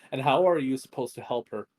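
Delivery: stern. Acted. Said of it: "his voice taking a sterner tone".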